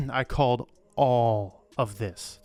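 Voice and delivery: slow, weighty "I called all of this"; mock-grand self-declaration; dramatic proclamation. Shown as a demonstration. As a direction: announce it like a prophet, slowly. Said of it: "repeat after throat clear".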